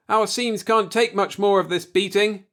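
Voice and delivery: very high, loud yell. Acted. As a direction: bellow the order. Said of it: "I yelled".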